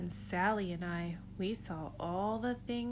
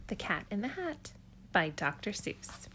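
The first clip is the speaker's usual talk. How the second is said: storybook narration. Acted. Reads Dr. Seuss aloud.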